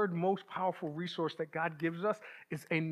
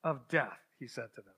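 scripture reading; 3 dB louder than usual. Acted. Reads the Gethsemane passage aloud.

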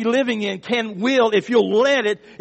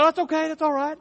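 mock gracious reassurance; 9 semitones higher, faster than usual. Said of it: "no, I didn't say that".

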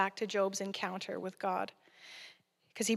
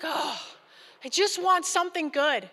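mock plea; 7 semitones higher, 6 dB louder than usual. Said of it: "I was like".

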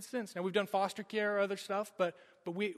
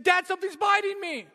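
put-on high, louder, frightened child's cry; panicked child; 10 semitones higher, 7 dB louder than usual. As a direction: cry out to dad in sudden fear. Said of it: "And he said".

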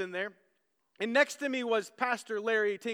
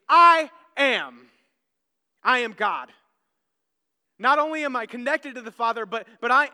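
loud, proclaiming as Jesus; ringing pulpit proclamation; booming declaration; 10 dB louder than usual. Acted. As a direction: thunder out the divine claim. Jesus declaring his divinity.

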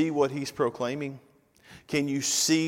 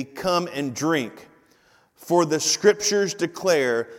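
Jesus proclaiming; 4 dB louder, slower than usual. Retold or imitated. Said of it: "Jesus says this".

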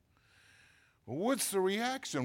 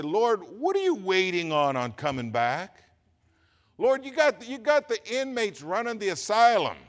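exasperated prayer; 6 semitones higher, 5 dB louder than usual. Retold or imitated. Retold exasperated prayer to God.

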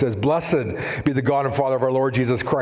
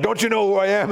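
raised, indignant acted question; self-important challenge; 7 semitones higher, faster than usual. Pilate confronting Jesus, mildly acted self-important challenge. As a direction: pull rank with a higher voice. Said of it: "Pilate, the, the power of the day".

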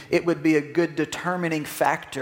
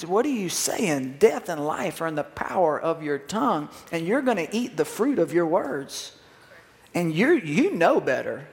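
the Lord scolding. Acted. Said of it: "and the Lord says".

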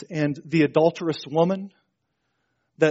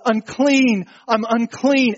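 high, raised cry of warning; retold yell; 6 semitones higher, 4 dB louder, slower than usual. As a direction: call it out high, like the leper. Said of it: "he would yell out".

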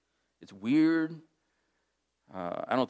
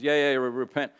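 reluctant preaching; 3 dB louder than usual. Retold or imitated. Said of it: "he just walks through the city".

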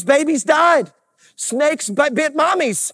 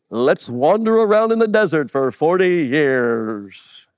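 low put-on voice, trailing down; mock dopey crowd; 10 semitones lower than usual. Everybody deciding to wander the desert, mock low drone. Acts out everybody's foolish decision.

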